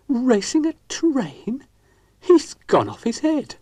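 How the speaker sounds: high, slow, loud exclamation; scandalised at the idea; a shocked, high, indignant outburst; outraged disbelief. Acted. Dougal outraged by the race.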